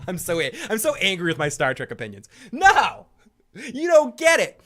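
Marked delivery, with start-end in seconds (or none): 2.5-4.6 exasperated. Acted. Mock-angry Star Trek rant.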